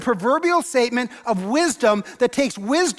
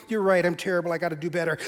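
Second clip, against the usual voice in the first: mock self-blame; 6 semitones lower, 5 dB quieter, faster than usual. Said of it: "you're going".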